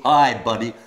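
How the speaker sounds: loud, hearty American greeting; American accent. Shown as a demonstration. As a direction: try it loudly in American English. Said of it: "do it with an American accent".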